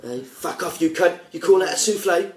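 a hint of an angry celebrity chef yelling; Gordon Ramsay impression. Friend does a chef on a gaming call, mock rant. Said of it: "I like Gordon Ramsay".

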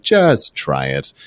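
slow, low, drawn-out; retold self-persuasion. Wife talking herself into dating him, slow and low. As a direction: stretch it out in a low voice.

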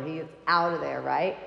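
normal talking voice

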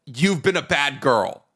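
slow, lightly put-on British accent; measured attempt at a sultry British line; deep British. Shown as a demonstration. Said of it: "You can't do deep British without Cockney".

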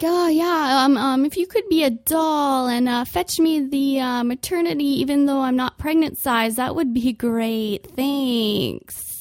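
sugar-coat the sarcasm; mock sweet sarcasm. Customer asking clerk for maternity size, sweetly sarcastic. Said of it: "I'm like".

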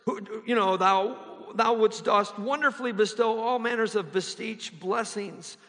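lofty, hammed-up King James prayer voice; mock flowery old English prayer. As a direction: pray like a pompous Shakespearean orator. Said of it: "start addressing God like".

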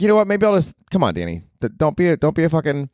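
mock motivational self-talk; self pep talk. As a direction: gee himself up, half mocking. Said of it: "So I'm like".

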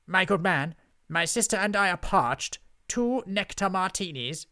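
high, loud, haughty witch ordering; imperious witch. A narrator's reading. Witch orders drinks from the barman, haughty and loud. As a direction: talk down to a servant, loudly.

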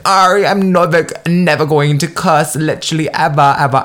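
put-on retelling her old vow never to cuss; emphatic vow. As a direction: swear it up and down, hammed-up. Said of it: "I was like".

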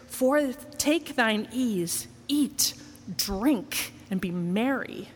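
lightly theatrical scripture storytelling; understated stage reading of a parable; theatrical recitation. Acted. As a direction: recite it as a little one-man show, savouring the phrases. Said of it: "It's theatrical".

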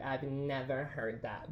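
slow, understated imitation of disbelief; Jesse. Host imitating co-host's reaction to Southern sayings, slow disbelief. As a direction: mimic a baffled friend, drawn out. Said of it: "Jesse's like".

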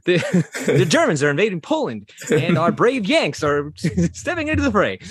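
lightly voiced newsreel announcer, laughing; a hint of a 1940s newsreel; old-timey announcer. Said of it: "it's like an old-timey announcer voice".

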